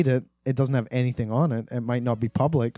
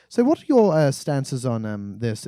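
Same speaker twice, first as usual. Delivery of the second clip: Monty Python interviewer; 4 dB louder, slower than usual. Retold or imitated. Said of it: "he's like".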